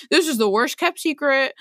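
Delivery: mock British accent. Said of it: "All this is in a British accent".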